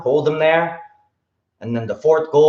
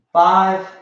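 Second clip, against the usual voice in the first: sharp martial arts commands; 5 semitones higher than usual. Real, not acted. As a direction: call the rep count out sharply. Counting reps in drill.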